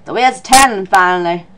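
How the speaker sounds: low character voice, attempted Australian; failed Australian accent. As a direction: try an Australian accent and miss. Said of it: "This is not Australian at all".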